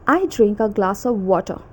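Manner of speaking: attempted British accent, no r at the end of "water". Shown as a demonstration. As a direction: say it British-style, "water" ending in uh. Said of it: "difference between British accent".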